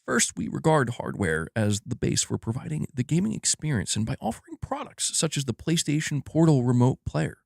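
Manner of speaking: lightly voiced corporate executive; a hint of a Dutch executive, read out carefully; Herman Hulst. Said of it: "I'm gonna let Herman take this one".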